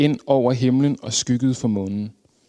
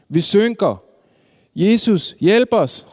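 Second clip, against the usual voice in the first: urgent high-pitched cry for help; råb om hjælp; 8 semitones higher, 4 dB louder, slower than usual. A narrator's reading. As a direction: call out high as if the boat is sinking. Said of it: "råbte de". (højt nødråb)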